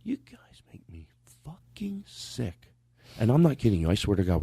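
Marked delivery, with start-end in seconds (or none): 0.0-2.7 mock whisper. Mock-betrayed host whispers.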